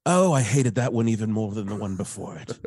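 imitated British director's disgust. British casting director hating the audition, imitated disgust. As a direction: reject it with mock disgust. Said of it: "he was really disgusted".

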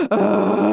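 exasperated mock groan; drawn-out "ugh". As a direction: groan it out, imitating annoyance. Imitates girl annoyed at jokes.

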